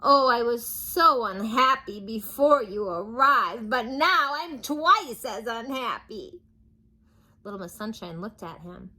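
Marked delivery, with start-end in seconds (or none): 0.0-6.4 weepy king lament. Acted. King lamenting his misery.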